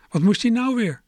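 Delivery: aunt calling out from the living room, fed up. A narrator's reading. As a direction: shout it through the house, annoyed. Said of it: "riep mijn tante uit de kamer".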